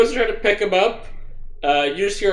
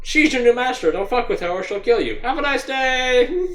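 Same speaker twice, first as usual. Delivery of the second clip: gruff slaver voice; 8 semitones higher than usual. Acted. GM voices character threatening slaves.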